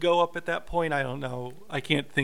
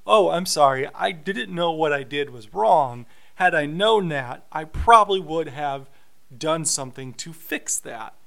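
sarcastic. Retold or imitated. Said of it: "very sarcastically saying".

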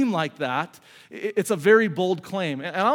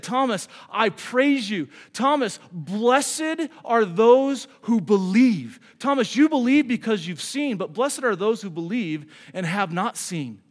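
voicing Jesus. Jesus voiced blessing Thomas.

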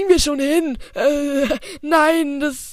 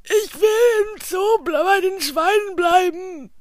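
put-on whiny kid voice; 5 semitones higher, slower than usual. Kid character voice in teaser.

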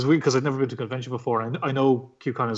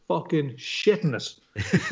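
laughing; 5 semitones higher, much slower than usual. Real, not acted. Nervous first trip, laughing.

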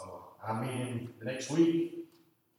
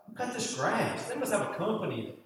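impressed guest; 6 semitones higher, 5 dB quieter than usual. Retold or imitated. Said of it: "They said".

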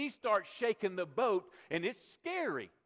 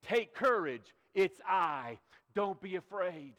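louder, ringing out the Lord's words; proclaimed comfort; 2 semitones lower, 6 dB louder, slower than usual. Retold or imitated. Preacher voices the Lord to the congregation, ringing loud. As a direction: call it out over the storm. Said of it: "hear our Lord, our Master, say to us".

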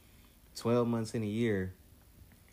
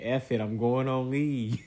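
fed-up quote; 4 semitones higher, 6 dB louder than usual. Retold or imitated.

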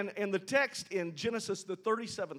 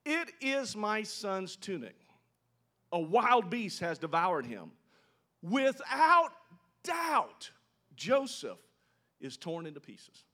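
grieving father; 4 semitones higher, 5 dB louder, slower than usual. Acted. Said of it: "He said".

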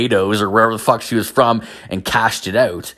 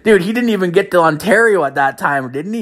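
high-pitched, amused disbelief; incredulous reaction; 9 semitones higher than usual. Retold or imitated. Podcaster reacting to how early coworker quit, incredulous. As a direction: push the pitch way up, astonished.

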